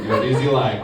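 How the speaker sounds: put-on low Russian accent, reproachful; Russian coworker. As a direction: chide in a deep Russian accent. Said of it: "I work with a guy from Russia".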